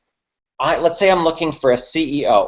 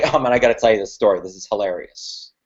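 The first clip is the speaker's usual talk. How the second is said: eager story lead-in; 6 semitones lower, faster than usual. Shown as a demonstration. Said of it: "Then I'm gonna say".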